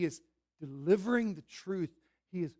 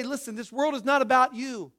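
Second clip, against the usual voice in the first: raised, emphatic preaching voice; preacher's bold declaration; 5 semitones higher, 9 dB louder than usual. Acted. Pastor confronting the congregation's pride, loud and emphatic. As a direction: press it on them, line by line. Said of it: "When I stand before you and say".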